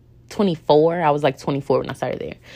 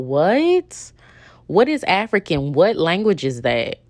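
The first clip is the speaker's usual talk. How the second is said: incredulous what; 2 semitones higher than usual. Real, not acted. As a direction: react like it's absurd. Reacting to absurd coworker remark.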